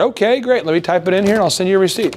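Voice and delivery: quick, upbeat close; cheerful, wrap it up fast; upbeat salesperson. Shown as a demonstration. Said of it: "That's how you do it".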